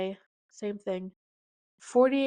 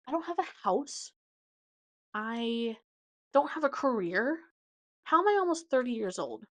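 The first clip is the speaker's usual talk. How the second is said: mock panic continues; 2 semitones higher than usual. Real, not acted.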